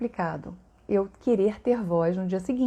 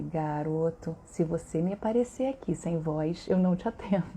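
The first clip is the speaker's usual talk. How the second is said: stern warning; 4 semitones lower than usual. Retold or imitated. Therapist's stern reply to patient.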